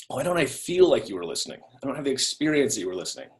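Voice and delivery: a spouse who feels unheard; hurt and quiet. Retold or imitated.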